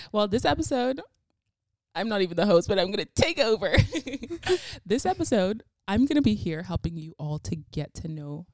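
loud, high, hammed-up show intro; mock host announcement. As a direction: announce the host with playful grandeur. Jokingly takes over as host.

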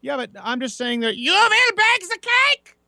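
high, put-on dictator voice; mock tyrant voice. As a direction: bark orders like a tyrant. Mock authoritarian command.

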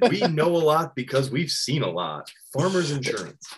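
a hint of an insurance ad voiceover; ad announcer voice. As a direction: sell the slogan like a TV spot. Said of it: "I need a farmers".

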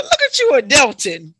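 a bit of mock parental pride; proud teasing. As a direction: tease him like a proud parent. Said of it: "I said".

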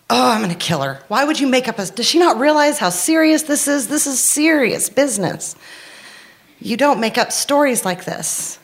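mock fury at her daughter; mad rant. Mother fuming in the car about her daughter, angry rant. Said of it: "I was like".

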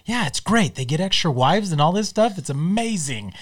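a hint of a delighted Peter; mildly thrilled, imitating; quoting Peter. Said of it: "He goes".

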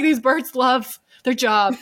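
slow, laughing gush; laughing quote. Retold or imitated. Gushing about the parrots, laughing. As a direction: say it slowly while laughing. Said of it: "I was just like".

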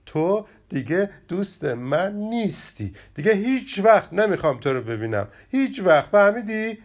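rising toward a loud, high outburst; angry. Acted. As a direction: storm off the friendship, building up. Friends quarrel, rabbit ends friendship.

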